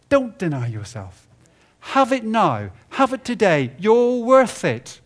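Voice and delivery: hammed-up voice of consumer culture; mock advertising voice. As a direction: sell it like a pushy commercial. Voicing culture's tempting message.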